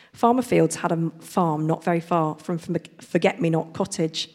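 storybook reading voice; reading to children. Acted. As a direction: read it like a picture book to kids. Reads picture book aloud.

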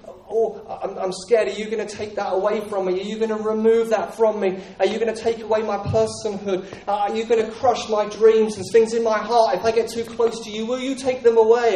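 a skittish animal, fearful and rising; timid animal. Pretend. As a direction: play the scared creature backing off. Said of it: "If I can do an impression of a timid animal here".

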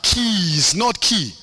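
"keys" stressed against the singular "key"; plural stressed. Real, not acted. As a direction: punch "keys", then set "key" apart as the wrong one. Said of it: "in plural".

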